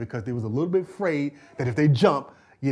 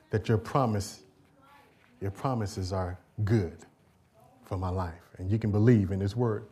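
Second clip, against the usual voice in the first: surrender prayer; 3 semitones lower than usual. Acted. Believer's quiet surrender prayer.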